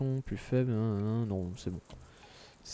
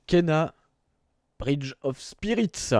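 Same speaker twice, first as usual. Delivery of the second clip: mock English accent, slow and drawn out; hammed-up English accent on the title; super English accent; 4 semitones higher, much slower than usual. Shown as a demonstration. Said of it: "avec mon super accent English". (accent anglais exagéré)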